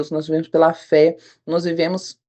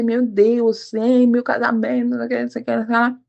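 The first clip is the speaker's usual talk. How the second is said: higher-pitched, mildly distressed retold plea; mildly afflicted prayer; 5 semitones higher than usual. Wife retelling her desperate prayer about her marriage, mildly afflicted. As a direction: re-enact a somewhat anguished prayer. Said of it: "tanta aflição, tão aflito".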